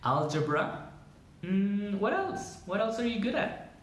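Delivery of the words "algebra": "algebra" with G as in "gym"; English soft G. Shown as a demonstration. Teacher showing the English G, "algebra" with j sound. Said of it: "esta es la Y".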